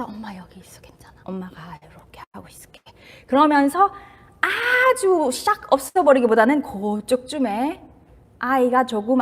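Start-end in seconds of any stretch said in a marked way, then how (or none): 0.0-2.8 much softer whispered comfort; soothing whisper. Retold or imitated. Mother hugging her crying child, whispered reassurance. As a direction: whisper close, as if holding the child. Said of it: "안아주면서".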